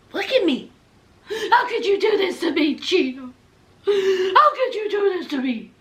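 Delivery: laughing and crying the plea; hammed-up sobbing wife pleading with Gino; mock sobbing. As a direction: blubber it through a laugh. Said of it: "Jasmine said".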